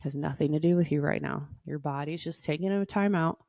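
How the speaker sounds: guided meditation read at an unhurried, gentle pace; yoga teacher guiding a breathing routine, soothing. Acted. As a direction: ease the listener into calm breathing. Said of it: "I'll put on my soothing voice".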